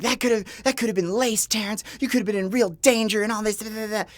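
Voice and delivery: high, light mock nagging; imitating worried ex. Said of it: "So she's all like".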